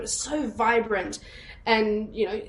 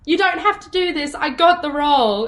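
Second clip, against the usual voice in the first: higher-pitched exasperated plea; annoyed confession; 5 semitones higher, 3 dB louder than usual. Retold or imitated. Daughter confessing to mum under pressure, mildly exasperated. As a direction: crack and blurt it out, mildly fed up. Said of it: "I got so annoyed, I cracked under pressure".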